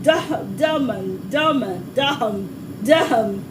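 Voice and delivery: tentative, low tries at a Durham accent; trying on a Durham accent, word by word; attempted Durham accent. Shown as a demonstration. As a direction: feel out "Durham" in the local accent. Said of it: "I'm trying to do the accent".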